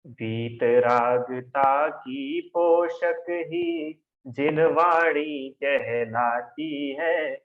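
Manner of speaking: slow, drawn-out scripture recitation; slow devotional recitation of a hymn line; reciting a verse. Shown as a demonstration. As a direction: chant the line slowly, like a verse from the Jaymala. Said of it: "क्या लिखा है जयमाला में".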